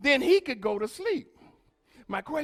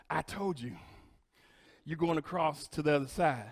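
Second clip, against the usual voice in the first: lower, softer, intimate sermon voice; soft preaching; 8 semitones lower, 9 dB quieter than usual. Real, not acted. Pastor speaking softly to Hearts Fellowship, quiet and intimate. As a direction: bring it down close and personal.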